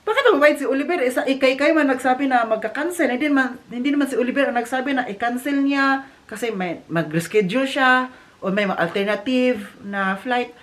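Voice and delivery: angry retort. Retold or imitated. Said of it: "nagalit siya doon".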